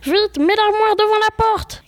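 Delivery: lightly acted shout for help; urgent cry. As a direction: hurry someone to block the door. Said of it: "cria Baptiste".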